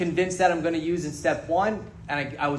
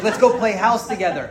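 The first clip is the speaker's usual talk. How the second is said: laughing; 4 semitones higher, 4 dB louder than usual. Retold or imitated. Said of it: "I was like".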